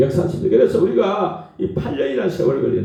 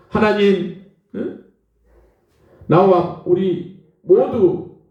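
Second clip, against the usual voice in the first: acted-out pleading prayer, higher and drawn out; desperate prayer; 4 semitones higher than usual. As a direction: imitate someone begging God, stretching the words. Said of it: "그렇게 막 기도를 했어요". (애원하는 기도 흉내)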